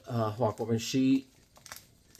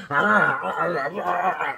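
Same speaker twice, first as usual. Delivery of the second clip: groaning in pain; slower than usual. Retold or imitated. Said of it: "get up out of bed and go".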